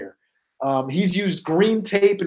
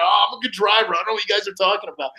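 hammed-up boastful buddy insisting he can drive; mocking Kark; 5 semitones higher, faster than usual. Host teasing cohost about his driving, cocky mock voice. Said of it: "you know".

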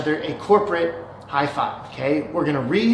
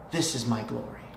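still small voice; 6 semitones lower, 10 dB quieter than usual. Retold or imitated. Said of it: "that still small voice of the divine".

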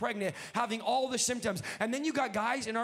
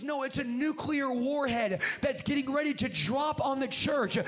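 rising preaching; 2 semitones higher than usual. Real, not acted. Preaches at full force.

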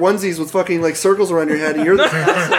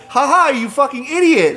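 mocking laugh; 8 semitones higher than usual. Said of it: "they laugh and they're like".

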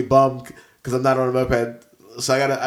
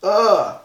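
sneeze groan; 7 semitones higher, 5 dB louder than usual. Real, not acted. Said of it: "I'm gonna sneeze so hard".

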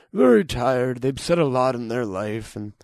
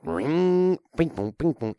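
light sung ping-pong chime, a bit higher; elevator noise imitation; 4 semitones higher, slower than usual. Shown as a demonstration. Making elevator chime noises for a friend, lightly sung. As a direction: hum it out like an elevator bell. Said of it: "Elevator noise".

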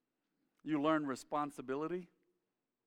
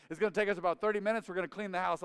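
imitating Dad; 4 semitones higher, 7 dB louder, faster than usual. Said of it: "He said".

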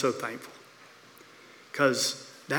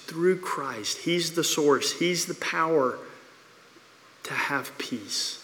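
preaching; 2 semitones higher than usual. Acted. Pastor urging sinners toward peace in Christ, fervent preaching. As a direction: drive it home with conviction.

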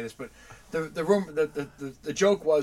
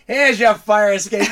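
uncle's slow handoff; 5 semitones higher, 13 dB louder, slower than usual. Retold or imitated. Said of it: "He goes".

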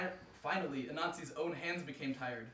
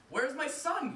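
high, loud demand; shout; 11 semitones higher, 7 dB louder than usual. Acted. Anansi grabbing the old man, shouting. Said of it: "he shouted".

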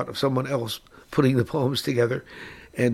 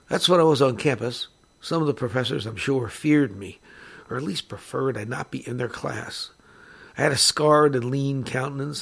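poem reading. A narrator's reading. Reads second Bukowski poem.

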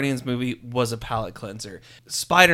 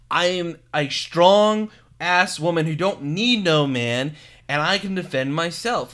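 Wonder Woman; 5 semitones higher, 6 dB louder than usual. Acted. Podcaster mimics Wonder Woman's gravitas, hammed-up and emphatic. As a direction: declare it high and emphatic, mock-heroic. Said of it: "Wonder Woman".

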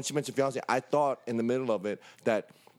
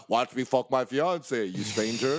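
mock sinister fiance; 3 semitones lower, slower than usual. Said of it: "and watch".

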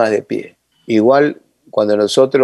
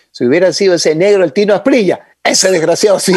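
laughing mock scorn; 7 semitones higher than usual. Coach jokes about Asprilla.

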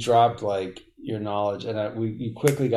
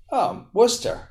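sheepish reply; 11 semitones higher, 4 dB louder than usual. Retold or imitated. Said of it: "retold exchange, other's answer".

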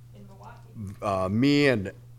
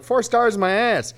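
higher, louder mocking scoff at the four stars; 12 semitones higher, 5 dB louder, slower than usual. Mocking the drummer's four-star hotel, louder scoff. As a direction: sneer the hotel rating away, louder. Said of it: "And I'm like".

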